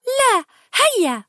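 high, slow, drawn-out coax. Acted. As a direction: wheedle him to tell. Anna coaxes Little Rock.

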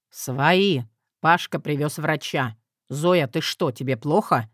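low, steady man's voice; gruff husband voice. Acted.

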